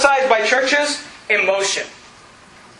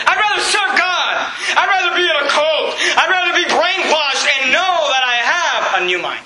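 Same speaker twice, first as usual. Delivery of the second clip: defiant shout; 3 semitones higher than usual. Pretend. Pastor shouting to the congregation, defiant. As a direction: shout it back at the world.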